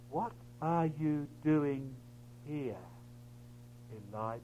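slow, low, very soft question; still small voice. Acted. God's voice questioning Elijah at the cave, still small voice. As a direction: ask it gently, word by word. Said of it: "was that still small voice".

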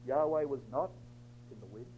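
low, soft, falling away to almost nothing; sudden hush. Acted. Preacher on Elijah alone after the wind, sudden hush. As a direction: let the emptiness sink in, quietly.

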